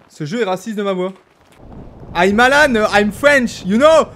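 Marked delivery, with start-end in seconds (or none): 2.1-4.1 put-on loud, accented English introduction. French gamer introducing himself to English player, accented English. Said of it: "Avec cet accent anglais".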